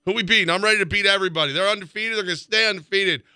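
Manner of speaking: hyped up. Real, not acted. Hyping the team's game.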